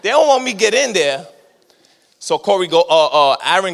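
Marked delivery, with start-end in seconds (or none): 0.0-1.2 playful resignation. Retold or imitated. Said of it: "I was like".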